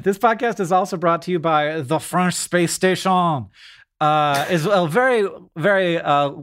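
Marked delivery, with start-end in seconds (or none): 1.8-3.5 mock French accent. Podcast host jokingly naming a sponsor, French accent. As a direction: put on a light French accent. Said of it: "do a French accent".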